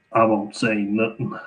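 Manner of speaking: slow, lightly put-on New Orleans accent. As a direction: imitate a slow Louisiana accent. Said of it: "It's a really cool accent".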